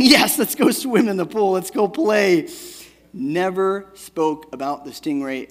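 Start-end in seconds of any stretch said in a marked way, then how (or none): 0.0-2.5 1 happy. Retold or imitated. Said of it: "And she's happy. Smiling".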